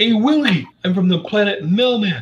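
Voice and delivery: put-on very high cartoonish character voice. Doing an impression of the 1980s NBC sitcom alien: ALF impression. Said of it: "I can do an impression of him".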